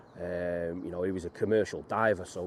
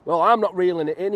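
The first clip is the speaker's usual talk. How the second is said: loud, teasing father refusing to help; a stubborn dad saying no with a grin; gruff dad voice; 10 semitones higher, 11 dB louder than usual. Retold or imitated. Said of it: "he'd go".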